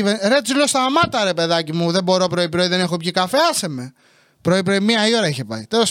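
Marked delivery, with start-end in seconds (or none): 0.7-1.2 higher-pitched cry of protest; exasperated retort. Retold or imitated. Son telling mother to stop, exasperated. Snaps back at nagging mother. 1.2-3.9 low, even grumble; weary protest. Retold or imitated. Son without his morning coffee, weary grumble. Pleads to be left alone early.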